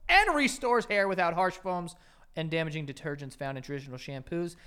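upbeat host-read sponsor spot; chatty, hyped-up ad read with asides. Acted. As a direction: sell the product like a podcast ad. Reads sponsor ad copy.

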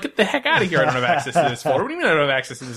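fast exasperated rant; indignant rant. Retold or imitated. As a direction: huff at the computer, fast. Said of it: "It's like".

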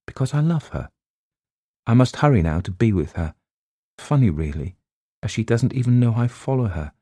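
a schoolgirl confessing her love in writing; child's letter read. Acted. Girl writing to her parents, lightly voiced earnest child.

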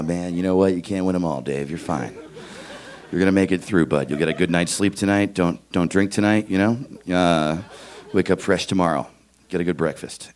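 low, understated self-pep-talk; mock reassurance to oneself; consoling himself. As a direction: gently talk yourself down, low-key. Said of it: "consoling myself".

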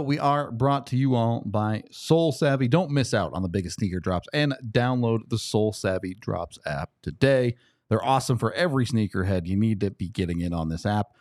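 ad read. Acted. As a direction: read it like a podcast ad. Reads sponsor ad.

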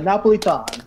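"Napolitan" in a light mock Italian accent; lightly hammed Italian accent on "Napolitan". Shown as a demonstration. Host shows the Italian way on the pretend show, mock Italian accent. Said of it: "I'll have to use my Italian accent for that one".

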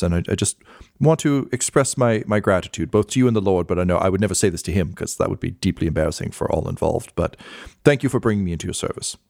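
lightly voiced fussy clerk, grateful; a hint of a humble servant thanking his master; Hugh the clerk. Game master voicing the clerk to his lord, a hint of grateful servant.

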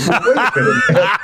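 high, laughing mock protest; retold coach protesting, laughing. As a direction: squeak it out through laughter. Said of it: "And she goes".

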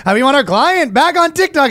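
lightly voiced Jewish lawyer. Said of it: "the Jewish voice".

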